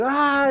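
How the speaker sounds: high, brief imitated scream; mock scream. Podcaster retelling the door gag, high mock scream. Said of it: "the kid starts screaming".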